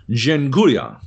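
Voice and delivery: Dziękuję said in Polish, stressed and falling; Polish thank you. Shown as a demonstration. Thanking Polish bar staff, saying Dziękuję in Polish. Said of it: "which means thank you".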